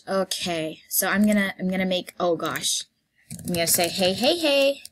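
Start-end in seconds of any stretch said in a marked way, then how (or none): 3.9-4.8 rising, louder bartender hellos; upbeat staff welcome; cheery greeting. Pretend. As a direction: greet customers brightly, each hey higher. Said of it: "what I usually say for my introduction".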